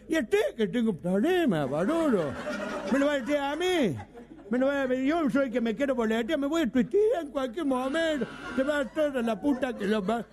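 indignant friend with s turned t; mock lisp, offended and rising; speech defect. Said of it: "Hablaba arte".

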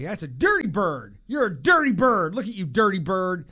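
chastising the dog. Retold or imitated. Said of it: "the same phrase that I use to chastise".

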